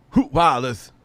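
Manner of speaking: high robotic reader; text to speech voice. Pretend.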